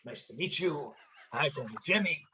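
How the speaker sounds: lightly voiced, relaxed old pro saying hello; quiet, casual take on his friendly greeting; imitating James Caan. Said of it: "That's the way he talks".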